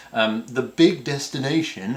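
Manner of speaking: Australian radio DJ, lightly put on. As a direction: announce it like an Australian radio host. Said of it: "I don't know why I'm doing this radio D J voice from Australia".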